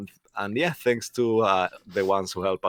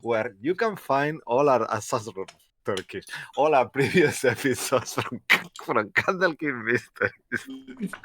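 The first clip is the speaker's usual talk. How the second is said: put-on Spanish accent; 4 semitones higher than usual. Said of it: "with a fake, uh, super strong Spanish accent".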